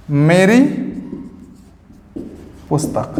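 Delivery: word by word with a long pause between; slow dictation. Shown as a demonstration. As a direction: dictate slowly so students can write. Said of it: "teacher dictates word by word". (धीरे-धीरे शब्द अलग करके बोलना)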